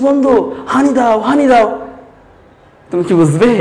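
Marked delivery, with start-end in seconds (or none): 0.1-1.7 thirsty Noakhali friend. Acted. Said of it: "তার প্রচুর তৃষ্ণা পেয়েছে".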